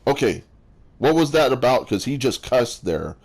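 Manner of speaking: surprised listener. Retold or imitated. A listener whose ears prick up at a cuss word, surprised. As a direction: act out a listener suddenly paying attention. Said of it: "and you go".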